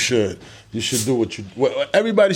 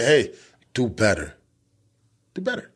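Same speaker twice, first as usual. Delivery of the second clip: motivational voice; 2 semitones lower than usual. Pretend. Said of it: "That's my motivational voice".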